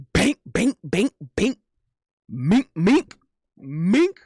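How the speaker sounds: short rising "bank" and "mink" hits; playful boxing sound effects; mimicked punch noises. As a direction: punctuate each word like a landed punch.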